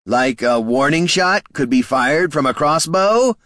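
hint nervously at the crossbow; nervous bandit. A narrator's reading. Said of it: "added the man".

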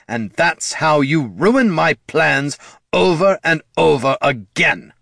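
high, heated scolding; furious parental lecture, pitch held up; exasperated tirade. A narrator's reading. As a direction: rant on, hammering each grievance. Lich's yelled tirade continues at son.

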